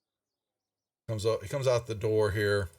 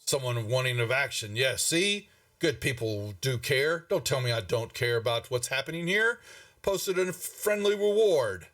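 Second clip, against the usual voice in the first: pompous town master. Acted. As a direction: puff himself up like a pompous old fool. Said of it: "pompous old fool looking".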